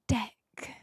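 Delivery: a careful, open-vowelled "deck" in place of "dick"; non-Kiwi "deck". Shown as a demonstration. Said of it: "I don't say it like that 'cause I'm a pretentious".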